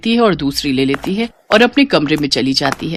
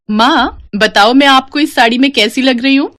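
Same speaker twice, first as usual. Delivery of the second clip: put-on higher, eager young girl showing off; Seema voiced; 6 semitones higher than usual. Daughter asking mother to admire her, higher eager girl voice.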